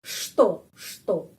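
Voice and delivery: что with sh and a stressed o; что said shto, o kept o; pronunciation demo. Shown as a demonstration. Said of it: "penekanannya di sini". (что dibaca shto)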